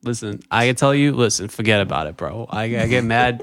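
put-on tough-talking New York accent; mock-tough New York accent. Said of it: "get angry just randomly because you're from New York".

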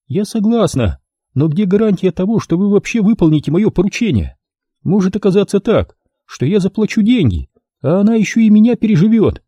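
a lightly voiced scheming woman; voiced female client. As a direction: play a calculating client doubting the deal. Client voiced, character dialogue.

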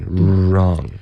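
"Wrong" with a held, rounded R onset; tight puckered R. Shown as a demonstration. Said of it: "紧一点". (“Wrong”开头嘴唇收紧)

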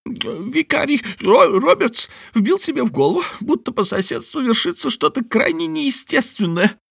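high bat talking while chewing; mouth full. Acted. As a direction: chew fruit while you talk. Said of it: "прочавкал он".

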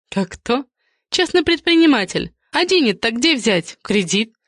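gossipy Valya. Acted. Valya's voice held.

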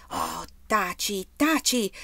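drawn-out first taci, second one cried out; alarmed exclamation. A narrator's reading. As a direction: Erika begging Rolf to stop, rising to a cry. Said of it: "esclamò Erika".

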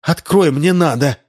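bang on the door with the voice; demanding shout. A narrator's reading.

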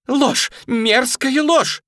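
high, loud, slow furious denial; furious shout. A narrator's reading. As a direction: spit out the word ложь in rage. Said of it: "остервенело кричала барышня". (остервенело кричит «ложь»)

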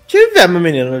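exclaimed echo. Real, not acted. Echoes co-host's surprised exclamation.

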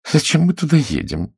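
displeased tone. A narrator's reading. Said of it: "недовольным тоном произнесла женщина".

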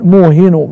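موهن as muuhinu; damma on the nun. Shown as a demonstration. Teacher showing the vowel, موهن ending in -u. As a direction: end موهن on a short u. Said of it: "بضم النون".

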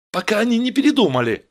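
high, loud, rushed shout; urgent calling. Acted. Steve hurries Vera before they reconsider, rushed shout. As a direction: hurry her along at speed. Стив торопит Веру.

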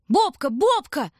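high, loud, slow anxious calling; trembling call. Acted. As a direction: call for the little brother, fearing the worst. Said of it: "дрожащим голосом звал Шурка".

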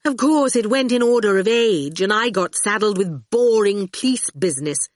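high-pitched, pouty grumble; pouting. A narrator's reading. Dillion tells Howard she got saddled with police business, pouting. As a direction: complain through a pout. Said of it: "Her lovely mouth pouted".

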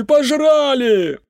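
very high, slow, stretched shout of "пожрали"; a drunk man howling his loss through the door; drawn-out drunk wail. A narrator's reading. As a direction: drag "пожрали" out into a long falling howl. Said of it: "сиплый мужской голос протянул".

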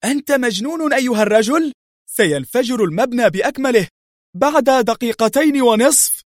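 terrified of the ticking bomb; panicked cry. A narrator's reading. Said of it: "صاح البديل بذعر". (صياح مذعور بصوت أعلى)

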